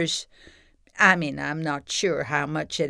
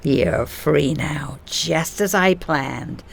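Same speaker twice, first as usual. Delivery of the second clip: villainous gloating; 2 semitones lower, slower than usual. Acted. Villain gloats to released scorpion.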